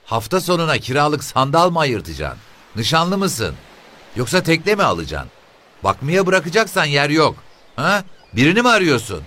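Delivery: put-on a pushy, sharp old mother; shrill old woman. The boatmen's mother questions the officer, high shrill woman's voice.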